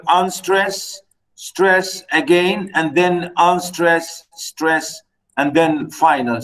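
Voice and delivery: slow, stretching "unstress" and "stress" beat by beat; slow scanning. Shown as a demonstration. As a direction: spell out the meter slowly like a teacher. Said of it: "I just want to show you".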